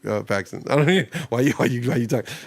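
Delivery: quick, laughing mock retort; a light put-on Susie talking back; imitating Susie. Host playing Susie snapping back at the doctor, mock retort. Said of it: "Susie's going like".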